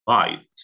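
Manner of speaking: "bite" said with a long i. Shown as a demonstration. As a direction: stretch the vowel in "bite". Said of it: "berarti dia bacanya jadi". (ucapkan "bite" dengan i panjang)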